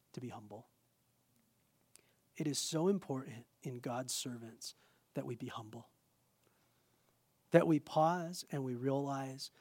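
solemn, hushed. Real, not acted. Preacher urging God's servants to be humble, hushed and solemn. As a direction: let it sink in quietly, with pauses.

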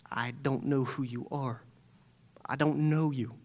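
nearly a hush, completely final; final verdict. Acted. Jesus speaking his last word to them, hushed and final.

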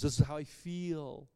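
sarcastic mimicry of self-absorption. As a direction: mockingly voice someone ruled by emotions. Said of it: "shouldn't have said that so sarcastically".

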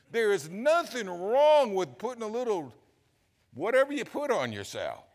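high, loud and laughing; laughing pulpit enthusiasm; excited preaching. Real, not acted. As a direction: tell it with delighted gusto. Excited preaching about wife.

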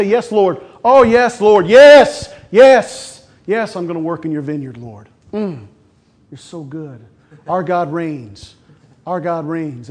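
hammed-up churchgoer saying yes Lord; mock churchy praise; mock pious praise. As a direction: parody a showy worshipper.

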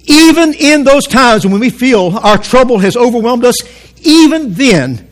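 "even" hit hard at the start of each phrase; emphatic preacher's weight on "even"; stress on EVEN. Real, not acted. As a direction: lean firmly on "even" each time. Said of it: "I'm emphasizing this word on purpose".

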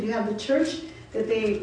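ordinary talk

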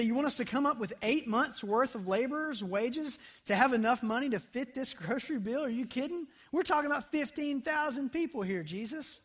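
sarcastic disbelief. Retold or imitated. Disciples answering Jesus with sarcasm about the bread bill, incredulous. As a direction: scoff at the idea like it's absurd. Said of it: "answered Jesus with a touch of sarcasm".

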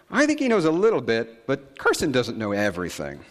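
hint of a small girl answering; lightly voiced little girl. Voicing daughter's reply.

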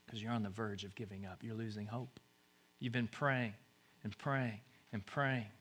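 low, very soft; hushed sympathy. Real, not acted. Preacher speaks to those losing hope, hushed and low. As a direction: speak gently to the weary. Consoling those about to give up.

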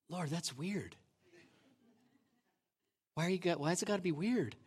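arguing with God. Retold or imitated. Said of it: "having an argument".

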